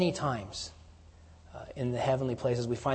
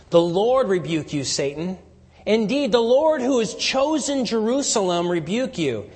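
louder, higher rebuke that builds; loud proclamation; 6 semitones higher, 6 dB louder than usual. Acted. The Lord rebuking Satan, a loud building proclamation. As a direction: thunder it out against Satan. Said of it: "when it says this".

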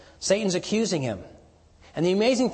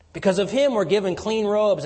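rising joy; 6 semitones higher, 6 dB louder than usual. Real, not acted. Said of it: "joyful turn in the sermon".

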